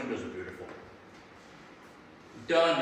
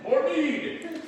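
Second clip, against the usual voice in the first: tavern cheer; 11 semitones higher, 4 dB louder than usual. Pretend. Tavern cheer after mead joke.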